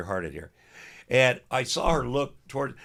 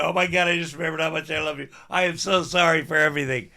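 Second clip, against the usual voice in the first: imagined gushing wife; 5 semitones higher, 4 dB louder than usual. Retold or imitated. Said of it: "And she go".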